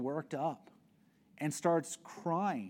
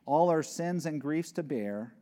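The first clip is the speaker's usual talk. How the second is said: hymn lyric recital. Shown as a demonstration. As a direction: lift the old hymn words with feeling. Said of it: "one of the lines out of the hymns".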